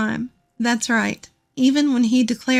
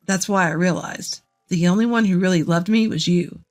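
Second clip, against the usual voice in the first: griping ex-husband; 4 semitones lower than usual. Acted. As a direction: lower voice of a complaining husband. Narrator voices the ex-husband.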